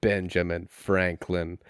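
slow, low, portentous reveal; Billy Boris. Acted. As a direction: draw it out as a grand twist. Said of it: "and then Boris goes".

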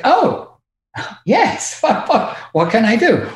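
high-pitched, delighted willingness to help; charmed eagerness. Retold or imitated. Airport worker charmed by the accent.

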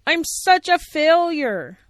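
slow, high hammed-up woe; mock despair, dragging it out; hammed-up sad puppet lament; sadly.

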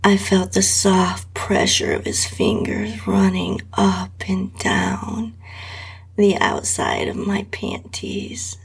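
intimate breathy whisper throughout; whispered erotic reading. A narrator's reading. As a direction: read it close to the mic, barely voiced. Erotic story read in whisper.

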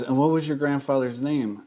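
gently mimicked sweet inquiry; imitated sweetness. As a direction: ask it sweetly, as a retold quote. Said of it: "Joan so sweetly just goes".

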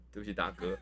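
hiccuping through an apology; burping. Real, not acted. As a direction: hiccup mid-sentence.

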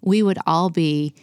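steady, heartfelt praying voice; earnest prayer. Acted. Wife praying over women listening to the podcast, earnest prayer. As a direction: pray it out for every listener.

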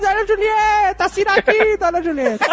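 high squawky puppet voice through a pen in the mouth; Louro José with pen in mouth. Pretend. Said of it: "O Louro José com a caneta na boca".

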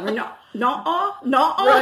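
testing "Not-a" as a separate, slow piece; attempted British pronunciation. Shown as a demonstration. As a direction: slowly split "Not-a" off from "Rena-". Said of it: "I don't think that's right".

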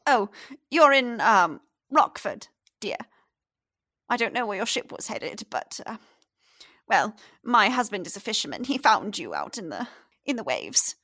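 lightly voiced chatty old lady; old woman. The fisherman's wife explains to the stranger where he is, chatty.

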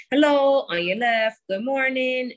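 high, bright greeting to passers-by; friendly call-out. Shown as a demonstration. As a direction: call out hello cheerfully. Greeting riders while passing.

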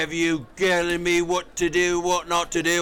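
a hint of Cockney Bert; cheeky Cockney grumbling; Cockney accent. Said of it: "Bert from Mary Poppins".

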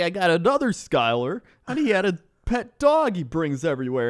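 high mock Canadian driver; Canadian accent. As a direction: gripe on in a put-on Canadian accent. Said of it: "need you to use that accent".

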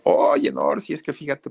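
high, eager appeal to the bandleader; a singer pleading to leave. Retold or imitated. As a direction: lift the voice up as the singer starts asking to go solo. The singer asks the bandleader to leave.

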